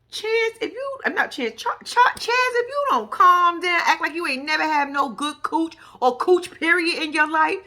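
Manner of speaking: high-pitched retold telling-off; exasperated scolding. Scolding friend for being too eager.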